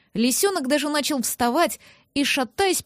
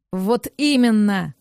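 slow, heavy angry retort; the furious neighbour snaps back; 3 semitones lower, 3 dB louder, slower than usual. A narrator's reading. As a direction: snap back in anger. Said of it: "Снова разозлился он".

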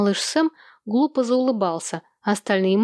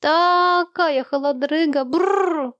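much higher, slow, with a shivering brrr; shivering child; 8 semitones higher, much slower than usual. Acted. Little Sam telling his mother he is freezing, shivering. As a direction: shiver through it like a frozen little boy. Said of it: "поёжился он".

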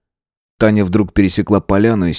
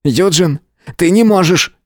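higher, desperate cry; shouting; 10 semitones higher, 3 dB louder than usual. A narrator's reading. Matvey cries out to the dying Eugene. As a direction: cry out to him. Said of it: "крикнул Матвей".

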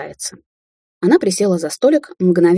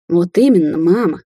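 disgusted; 5 dB louder than usual. A narrator's reading. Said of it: "с отвращением скривилась Рубин".

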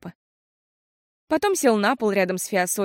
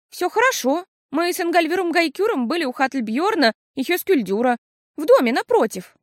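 put-on young girl; 8 semitones higher, 4 dB louder than usual. A narrator's reading. Fiasol answers cheerfully.

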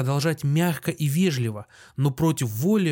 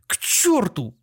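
higher, plaintive curse; tearful cry; 7 semitones higher, 3 dB louder, slower than usual. A narrator's reading. Doctor yells after his fleeing guests, tearful. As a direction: curse after them, close to tears. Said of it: "крикнул он плачущим голосом".

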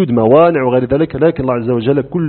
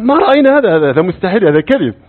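incredulous denial; 5 semitones higher than usual. Retold or imitated. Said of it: "هذا تعجب".

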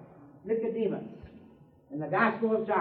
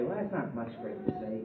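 dismissive listener; 12 semitones lower, 10 dB quieter than usual. Acted. Imagined listener's dismissive remark.

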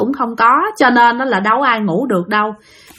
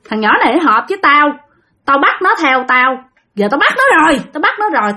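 resentful ghost uncle; 3 semitones higher than usual. Retold or imitated. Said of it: "Ông nói rằng".

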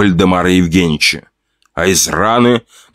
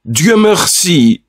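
high, slow relieved sigh of thanks; wife relieved her husband is fine; relieved exclamation; 8 semitones higher, much slower than usual. Acted. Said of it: "воскликнула Павлова".

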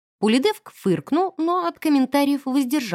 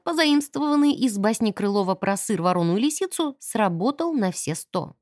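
plain reading voice

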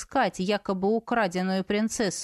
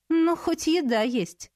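slow, higher wry chuckle; smirking; 6 semitones higher than usual. A narrator's reading. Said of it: "усмехнулась я".

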